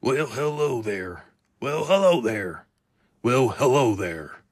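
loud cartoon character voice; Pete. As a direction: stretch out a big cartoonish greeting. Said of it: "I gotta work on that".

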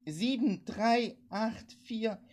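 numbers cried high and loud; desperate woman calling digits over the radio. A narrator's reading. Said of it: "rief die Frau".

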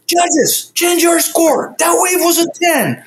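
high, slow and insistent. Retold or imitated. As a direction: pitch it up, drag each word out. Surfer insisting judges change score.

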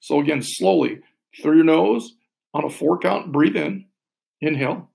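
calm, paced counting with long pauses; slow breath counting. Shown as a demonstration. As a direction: guide the breath gently and slowly. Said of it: "I'll talk us through one more".

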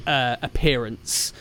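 slow, ominous storyteller voice; scene-setting narration. Acted. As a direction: build the dread slowly. Game master's scene setting.

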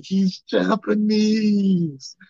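high, loud, slow indignant correction; high loud mock outrage at the fan; exasperated retort. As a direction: set the fan straight, fed up. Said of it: "I'm like".

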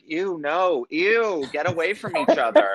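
high, disgusted mock recoil. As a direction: squeal it out in disgust. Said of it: "but I was like".

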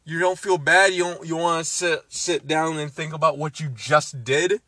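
high incredulous yelling at the character; imitating yelling at the screen; mock outrage. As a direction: act appalled at her. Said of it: "I was like".

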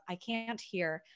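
soft and quiet, a gentle mock of loving self-talk; compassionate tone. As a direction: speak softly to a restless inner part, lightly. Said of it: "this very compassionate tone of".

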